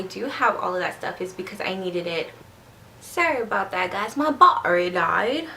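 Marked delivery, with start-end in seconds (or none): 3.0-5.5 badly faked English accent, lilting up and down; mock English accent for an apology. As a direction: attempt a playful, failed English accent. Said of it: "can't do an English accent".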